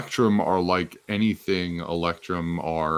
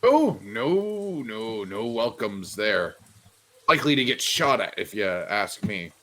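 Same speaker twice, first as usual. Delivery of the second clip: shopkeeper's grim warning. Acted. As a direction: draw out the no, then warn them off. Game master plays shopkeeper.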